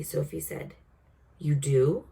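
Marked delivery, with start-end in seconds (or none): 1.4-2.1 surprised, hopeful question; light up with surprise; brightening surprise. Acted. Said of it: "cried the B F G, suddenly brightening".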